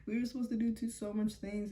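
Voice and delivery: lightly mocked tearful whine; imitated crying. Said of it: "she starts crying".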